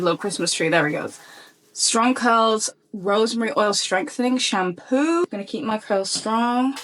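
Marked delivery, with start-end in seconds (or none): 1.7-5.3 slow careful read. Shown as a demonstration. Rereading the shampoo name for viewers after the dog distraction, slow and clear. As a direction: slowly spell out "Strong Curls Rosemary Oil Strengthening Shampoo" word by word.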